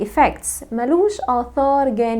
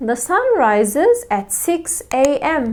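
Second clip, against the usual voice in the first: slow example sentence; 3 semitones higher, much slower than usual. Shown as a demonstration. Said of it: "For example".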